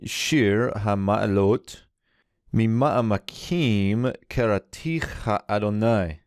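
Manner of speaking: slow, careful Hebrew reading of "Shir HaMa'alot". Shown as a demonstration. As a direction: read the Hebrew slowly, syllable by syllable. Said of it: "So we begin a new Song of Ascents".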